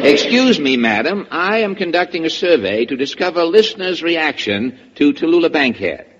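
formal announcer voice; stage voice. Acted. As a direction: put on a grand radio-host manner. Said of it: "that was my stage voice".

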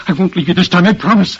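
insist, desperate not to leave him; urgent promise. Acted. Repeated promise, stronger.

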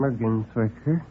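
soft, shy, rising name; timid. Acted. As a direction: murmur the name meekly. Little man gives his name.

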